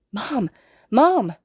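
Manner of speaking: put-on excited little-boy squeal, rising loud. A narrator's reading. Little boy hearing his mom on the phone, excited squeal. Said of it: "he squeals".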